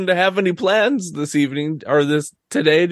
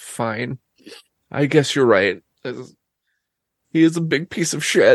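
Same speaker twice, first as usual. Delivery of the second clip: put-on speaking through sniffles. Voicing a character who gives in to the other player, sniffling. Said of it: "she just kind of like sniffles".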